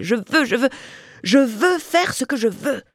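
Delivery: high, defiant wail of I want; defiant cry. A narrator's reading. Mistress cries her will to the ceiling. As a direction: demand your freedom to the sky. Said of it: "Un silence effrayant suivit son cri".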